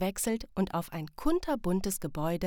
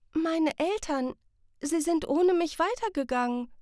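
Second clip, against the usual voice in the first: put-on high child's voice close to tears; near tears; 9 semitones higher, 4 dB louder than usual. A narrator's reading. Sam remembering the parents walked on, near tears. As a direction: realize your parents left you, almost crying. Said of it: "Den Tränen nahe".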